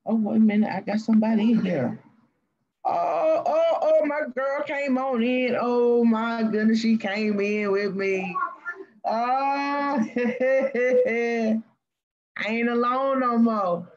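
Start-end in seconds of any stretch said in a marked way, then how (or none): 2.8-13.9 sped-up, much higher glitchy voice; squeaky like a fast-forwarded tape; chipmunk voice. Real, not acted. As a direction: stream glitch turning the voice into a chipmunk. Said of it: "you gotta do something with the voice".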